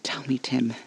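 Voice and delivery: threatening hushed interrogation; menacing whisper. Acted.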